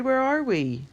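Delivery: high, loud distressed cry; a dazed girl crying out in alarm; crying out dizzy. Acted. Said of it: "she cried".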